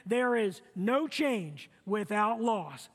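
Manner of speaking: slow, deliberate unison recital; slow call to recite together; slow recitation. Shown as a demonstration. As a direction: lead the crowd through it word by word. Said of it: "Let's say it together".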